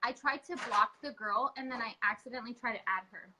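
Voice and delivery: muffled, like through a wall. Real, not acted. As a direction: sound dampened and far off. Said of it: "You sound muffled".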